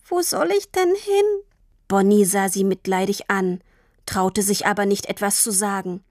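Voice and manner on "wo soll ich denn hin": put-on small frightened girl. A narrator's reading. Abandoned girl asks.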